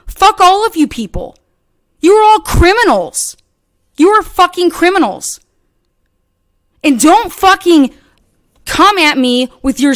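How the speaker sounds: furious outburst. Real, not acted. Calling out her harassers as criminals, furious. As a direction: hurl it at all of them.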